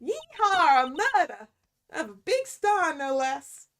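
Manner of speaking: loud, gleeful gruff cop boasting; bragging detective. Acted. Detective Gumshoe gloating over a murder, loud and excited. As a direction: crow about the case like a proud dim detective.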